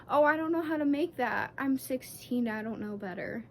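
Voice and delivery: lightly voiced, sarcastic clueless teenager; mocking a clueless teen. Sarcastic aside to the manager, lightly mocking a clueless teen. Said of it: "I can act like I'm sixteen".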